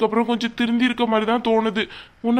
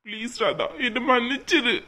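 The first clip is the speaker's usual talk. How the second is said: soft, pleading tearful voice; tearful apology; 3 dB quieter than usual. Acted. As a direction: beg forgiveness, close to tears. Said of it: "அழாதீங்க please". (அழுகையோடு மெதுவாக மன்னிப்பு கேட்டு)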